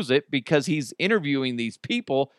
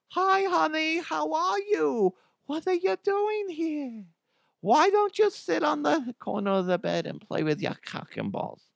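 much higher put-on mom voice, sweet and slowed; Mama DeHuff voice. Host showing off his stolen comedy mom voice, much higher and cooing. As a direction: coo like a cartoonish mother, pitched way up. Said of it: "I stole the voice for Mama DeHuff".

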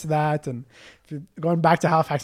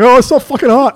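laughing complaint; 8 semitones higher, 10 dB louder than usual. Retold or imitated.

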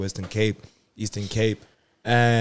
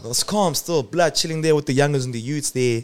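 put-on Afrikaans British accent. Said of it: "You sound like an Afrikaans British person".

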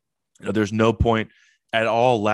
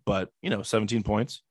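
voice giving out. Real, not acted. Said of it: "my voice is giving out on me".

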